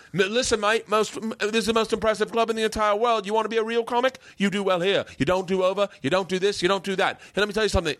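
high, put-on London comic voice; hammed-up, high-pitched Londoner; mock London accent. Mocking London comics lecturing him.

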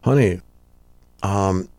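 low, grave mock delivery with long pauses; dad breaking bad news. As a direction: deliver grim news slowly, deadpan and low. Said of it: "and he's like".

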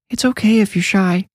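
put-on high little-girl voice; a child gently coaxing, pitched high; young girl. A narrator's reading. Neve reassuring her new friend, high girlish voice.

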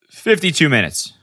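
restrained disbelief before the outburst. Retold or imitated. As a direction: read the drive time in dismay. Reacting to the GPS time.

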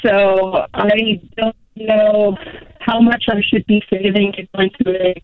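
breaking up on a bad phone line; choppy cell connection; over the phone. Real, not acted. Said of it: "you're breaking up on us".

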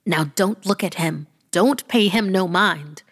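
firm, lightly voiced granny snapping; mild snap. Granny shielding the child from the creature, snapping. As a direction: cut in sharp to protect the child. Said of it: "my granny snapped".

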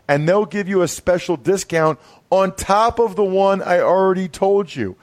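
upbeat sponsor read, brisk. Acted. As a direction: sell it like a podcast ad. Host reads sponsor ad.

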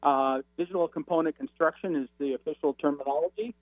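breaking up over a phone line; faint, cutting-out phone call; crackly cordless phone. Real, not acted. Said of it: "you're breaking up a little again".

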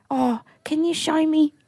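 high, tearful quote breaking off; choked up. Real, not acted. Storyteller quoting elderly man, too choked up to finish. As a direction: struggle to speak through real tears. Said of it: "I actually can't even talk about it".

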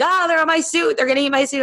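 lightly voiced fussing partner; worried partner. Partner fretting about ladybugs on suit.

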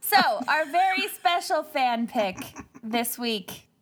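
slowing right down for the title; dramatic slow reveal. Acted. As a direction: drag out the big reveal.

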